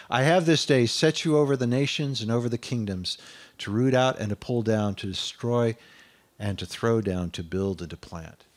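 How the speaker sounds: measured, declaiming scripture reading; proclaiming the prophet's call. Acted. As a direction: read the verse out with weight. Reads scripture aloud.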